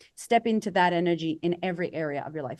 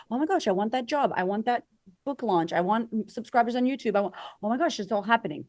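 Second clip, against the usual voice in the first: higher, gushing mock excitement; eager wanting; 3 semitones higher than usual. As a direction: play someone giddy about everything they want.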